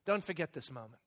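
very soft, low murmur; hushed, low retold reminder; gentle whisper. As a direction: imitate a quiet voice speaking to the heart. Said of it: "just whispers to my heart".

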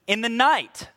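slow, drawn-out ominous warning; foreboding. Acted. Preacher quoting scripture to the congregation, foreboding. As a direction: draw the words out forebodingly. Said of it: "there's that foreboding thief in the night".

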